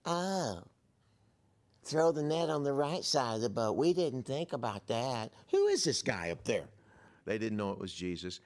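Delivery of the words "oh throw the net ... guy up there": mock-impressed sarcastic grumble; put-on sarcastic fisherman. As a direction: heap sarcasm on the stranger's advice. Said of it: "somebody with the gift of sarcasm".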